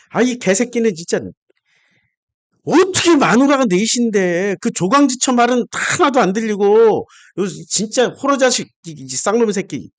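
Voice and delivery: 야곱에게 화가 난 설교; angry rant. Real, not acted. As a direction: let real anger spill into the insults. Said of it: "내가 왜, 왜 이렇게 화를 내냐면은".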